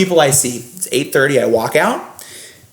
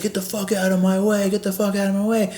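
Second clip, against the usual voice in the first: higher, softer imitation of a threat; a hint of the guest's menace; mock angry guest; 7 semitones higher, 5 dB quieter than usual. Guest snarls at Gary to move: lightly voiced threat. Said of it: "The guy's like".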